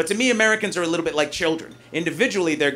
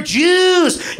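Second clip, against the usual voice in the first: blender yell; 10 semitones higher, 5 dB louder than usual. Pretend. Voicing the anti-Semitic blender.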